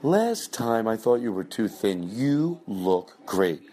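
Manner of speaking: very slow, drawn-out fake compliment; slow replay of host. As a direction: savour each word, dragging it. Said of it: "That's the bit we were doing".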